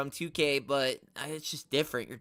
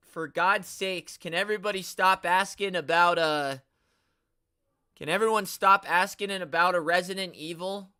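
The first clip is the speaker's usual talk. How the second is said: louder, higher, fed-up plea; real exasperation, raised voice; exasperated; 3 semitones higher, 5 dB louder than usual. Real, not acted. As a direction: beg them to stop, worn out. Exasperated at repeated fan question.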